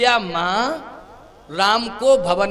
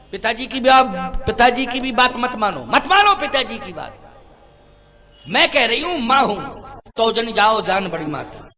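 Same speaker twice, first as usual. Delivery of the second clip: acted insistence; 4 dB louder than usual. Kaushalya orders Ram to disobey father.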